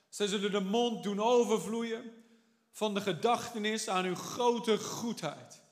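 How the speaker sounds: solemn Bible reading in a Dutch sermon; scripture reading. Acted. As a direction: read the psalm as a solemn proclamation. Reads the psalm aloud.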